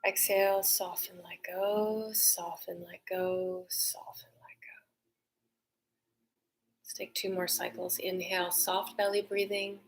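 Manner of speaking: guided meditation. Acted. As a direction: guide the breath gently, letting go. Leads a breathing meditation.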